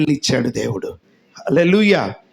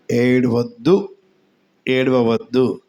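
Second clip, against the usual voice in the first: tender comfort; 4 semitones lower, slower than usual. Acted. Jesus comforting the mother.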